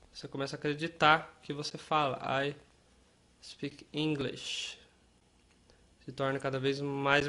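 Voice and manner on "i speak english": slow, clear English line; slow model sentence. Shown as a demonstration. Teacher giving a line for learners to repeat. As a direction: say it slowly so they can repeat. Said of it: "repetir essa frase".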